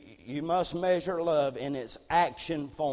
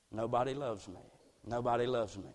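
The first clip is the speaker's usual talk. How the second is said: despairing quote; 5 semitones lower, 8 dB quieter than usual. Retold or imitated. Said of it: "people say this right before putting a bullet".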